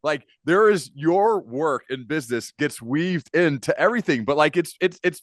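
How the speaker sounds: high, loud, giggly rambling; real laughter breaking through the words; amused friend laughing through the words, high and loud; laughing while talking. Real, not acted. Laughing at funny company name.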